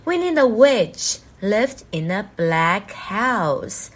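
slow storybook reading voice; reading to children. Shown as a demonstration. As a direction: read it slowly to a class. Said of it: "下一页就是那个故事内容哦".

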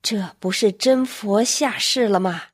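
slow, deliberate, each word weighed; measured, emphatic slow delivery. Retold or imitated. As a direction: spell it out in awe, slowly. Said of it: "一字一板地说".

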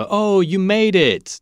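cheerful welcoming call; happy welcome. Pretend. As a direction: greet a friend who finally arrived. Greeting someone who arrives.

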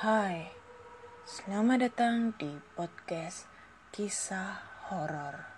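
slow, hushed horror show host; vintage horror narrator. Shown as a demonstration. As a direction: draw out kisah horor, sinking very quiet. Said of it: "Oke, oke, ulang".

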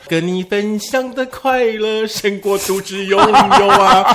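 slow, laughing through words. Real, not acted. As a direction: laugh while saying it. Laughing while joking.

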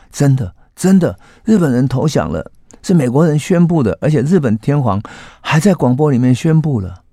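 convince them it's really true; eager excitement. Retold or imitated. Reporter assures the couple the surrender is real, eager and excited.

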